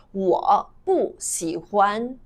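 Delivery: slow, each syllable separated; slow demonstration. Shown as a demonstration. Teacher showing how to say dislike, slow demonstration. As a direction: repeat it word by word for learners. Teacher repeats phrase word by word.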